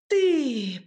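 loud shocked outburst; wife finds a stranger in the chest, roars in shock; astonished roar. A narrator's reading. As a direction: bellow it in disbelief. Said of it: "проревела она в изумлении".

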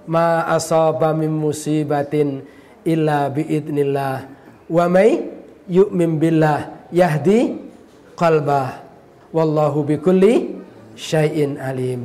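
slow, measured Arabic verse reading; drawn-out recital with pauses between phrases; Quran recitation. Real, not acted. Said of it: "Saya kemudian bacakan ayat ini".

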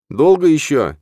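high, loud indignant question. A narrator's reading. Hero pressing Rahim on the path, high and loud with indignation. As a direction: demand it, fed up. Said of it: "с негодованием спросил я".

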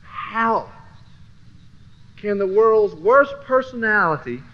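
slow, loud, high disbelieving shout with a laugh; shouting at how unfair it seems; incredulous shout. Retold or imitated. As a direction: yell it in amazed disbelief. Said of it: "and I go".

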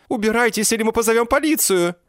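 high, loud squeaky cry; Jennet's squeaky threat. A narrator's reading. Jennet threatens the thugs in a high loud squeak.

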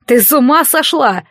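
aghast outburst; horrified shout. Acted. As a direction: cry out in horror at her. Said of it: "закричал Риолас".

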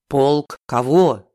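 ниже, медленно, встревоженно; нервно переспросить; нервный Феликс. A narrator's reading. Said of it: "занервничал Феликс". (Феликс нервничает в трубке, ниже и медленно)

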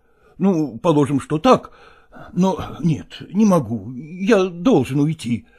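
usual speaking voice

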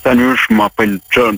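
put-on light American seducer accent; leading man. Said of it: "tu tiens bien l'accent". (voix de séducteur à l'américaine)

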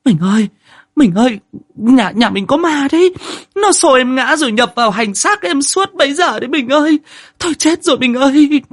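very high, loud frantic wail; wife wailing that the house is haunted; terrified wailing. Acted. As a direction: howl it out to your husband in terror. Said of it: "chị hú lên".

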